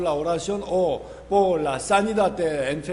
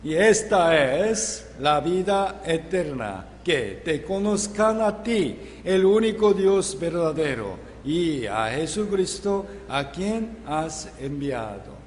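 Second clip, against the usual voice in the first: scripture read aloud. Acted. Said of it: "Leamos juntos".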